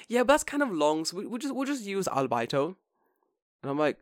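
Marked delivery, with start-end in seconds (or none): 0.1-2.8 high-pitched put-on teacher voice; teacher impression. Teacher explains her word to Jordan, high-pitched imitation.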